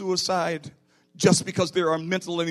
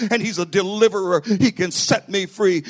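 retold yelling; 5 dB louder than usual. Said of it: "he started yelling".

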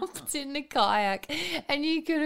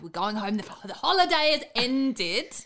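mock parental threat. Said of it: "how you just throw out a threat".

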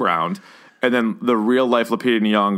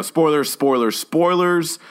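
spoiler warning; 5 semitones higher, slower than usual. Real, not acted.

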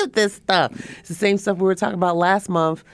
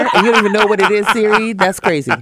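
retold disbelief; 5 semitones higher, 5 dB louder than usual. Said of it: "I was like".

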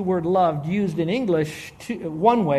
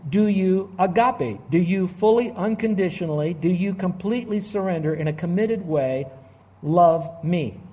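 measured question built phrase by phrase; deliberate, emphatic quote. Retold or imitated. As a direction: pause before a weighted "love me". Expands Jesus's question for emphasis.

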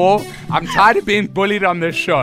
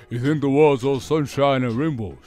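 Sylvester Stallone. Retold or imitated. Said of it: "It's Sylvester Stallone".

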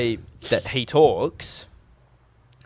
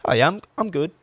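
higher, lilting throwaway reply; lilting texter tone; 5 semitones higher than usual. Retold or imitated. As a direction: imitate his lilting, higher-pitched tone. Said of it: "a tone line of like".

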